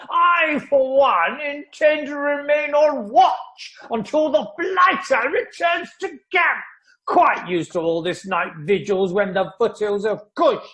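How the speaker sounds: blustering shout. Acted. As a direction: bellow it like an old army major. Major boasting of night vigils.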